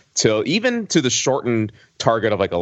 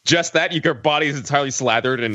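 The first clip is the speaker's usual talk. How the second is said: surprised; 5 semitones higher than usual. Real, not acted. Incredulous question.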